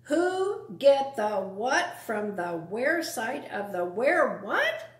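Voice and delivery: mocking repeat. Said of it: "The Scruffy Vermin repeated".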